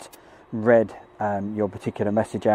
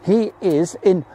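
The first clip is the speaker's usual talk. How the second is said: put-on New Jersey accent, higher and louder; mock New Jersey accent; 8 semitones higher, 5 dB louder than usual. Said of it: "He doesn't talk like that".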